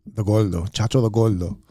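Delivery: a hint of a goofy fat guy voice, lightly done. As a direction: play the chubby character Chacho, lightly. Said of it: "this voice that I do for a fat guy".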